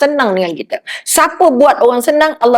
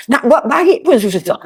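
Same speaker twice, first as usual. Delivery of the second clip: slow, laughing sigh of a frustrated helper; rueful laughing. Acted. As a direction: let it out slowly through a laugh. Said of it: "Orang yang nak bagi tu lah".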